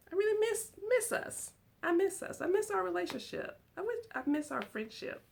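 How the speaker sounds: pleading. Real, not acted. Missing friendship with viewers.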